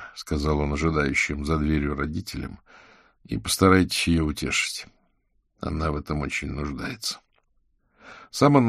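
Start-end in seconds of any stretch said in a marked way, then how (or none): none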